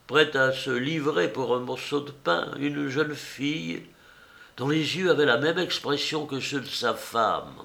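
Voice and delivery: high, sweetly mock-polite old woman; old enameller woman. Old woman introducing herself to the painter, high and coy. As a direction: play the coy old artist handing over her card.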